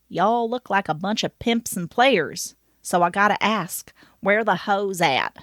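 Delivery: taxi driver with a Southern twang; Southern accent. Acted. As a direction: put on a light Southern accent. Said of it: "I gave him a Southern accent".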